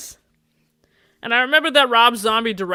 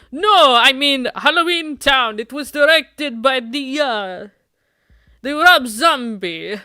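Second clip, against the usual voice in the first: higher and louder, slow; insistent loud correction; 5 semitones higher, 5 dB louder, slower than usual. Acted. Defensive date insisting on his favorite movie, loud. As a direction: dig in and insist.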